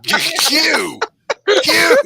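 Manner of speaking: loud high call. Real, not acted. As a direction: call his name across the room. Calling out to Q.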